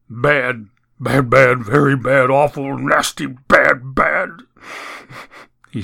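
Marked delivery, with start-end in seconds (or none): 0.1-4.3 put-on sniffly boy's voice. Eustace admits fault, sniffling.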